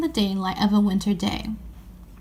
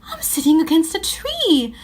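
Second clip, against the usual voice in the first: whisper; 6 semitones higher than usual. Acted. Astonished discovery in wardrobe.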